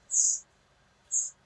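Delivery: "s", "s", "a" said as separate sounds, then blended into "sa"; sounding out. Shown as a demonstration. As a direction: sound out each letter slowly, then blend. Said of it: "I'm gonna use the three-step method".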